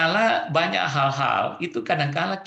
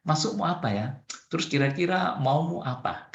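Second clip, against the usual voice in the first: softened. Shown as a demonstration. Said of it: "perhalus kata-katanya".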